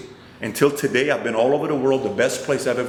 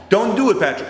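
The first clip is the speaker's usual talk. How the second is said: high, loud, sharp no; firm warning; 8 semitones higher, 3 dB louder than usual. Retold or imitated. Manager warning Patrick not to come, loud and high. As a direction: shut the idea down hard. Manager refusing his plan.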